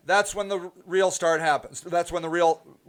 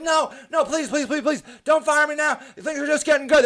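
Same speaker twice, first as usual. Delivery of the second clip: higher, laughing plea; mock begging; 6 semitones higher than usual. Marketer begging the client not to fire her, mock pleading. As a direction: beg playfully not to be fired. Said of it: "I'm like".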